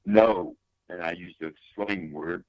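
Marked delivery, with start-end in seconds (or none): 0.1-0.6 a mildly louder, retold flat refusal; retold angry no. Husband retelling how he refused his wife, mildly louder. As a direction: snap back a short mock-angry no. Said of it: "I was mad".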